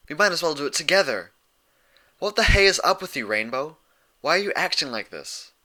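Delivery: loud, high and fast, fed up; exasperated outburst. A narrator's reading. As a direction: let it burst out, pushing hard.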